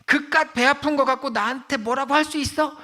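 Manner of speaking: high, mock teenage back talk; insolent. Daughter dismissing her mother's labour pain, imitated insolence. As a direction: throw it back rudely as the daughter. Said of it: "이렇게 싸가지 없이 얘기를 했더니".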